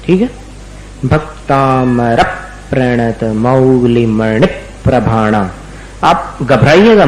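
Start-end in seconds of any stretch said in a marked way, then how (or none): 1.0-5.5 slow, measured recitation hitting Bhaktamar; weight on the short vowel before संयुक्त अक्षर in प्रणत मौलिमणि; stress demo. Shown as a demonstration. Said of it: "इसका नाम है स्वराघात".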